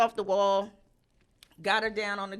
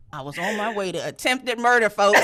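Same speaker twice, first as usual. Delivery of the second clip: louder, laughing through the words; 9 dB louder than usual. Real, not acted. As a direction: confess it while cracking up. Laughing at own confession.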